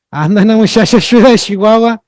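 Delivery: northern Mexican accent, every ch turned into sh. Shown as a demonstration. Teacher giving a regional example, northern Mexican accent. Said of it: "en el norte".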